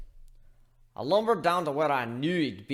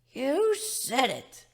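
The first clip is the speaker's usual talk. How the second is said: dragon voice; 12 semitones higher, much slower than usual. Acted. Dragon agreeing over whiskey.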